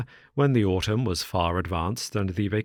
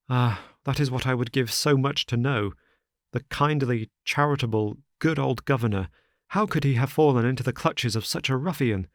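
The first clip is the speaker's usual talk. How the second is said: lightly voiced anxious son; a hint of a worried young friend; distressed young man; 5 semitones higher than usual.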